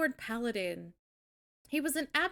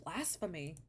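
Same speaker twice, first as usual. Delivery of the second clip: much softer, low mock-solemn verdict; mock grave; 7 semitones lower, 11 dB quieter than usual. Streamer mock-condemning a shoe-wearing hobbit, low and solemn. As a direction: pronounce it like a grave sin.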